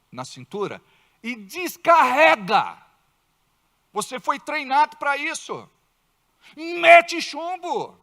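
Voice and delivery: firm orders, ending in a slow loud bark; a commander barking orders; gruff superior. Retold or imitated. Superior officer ordering the scared cop to shoot, stern command. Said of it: "Ele vai dizer".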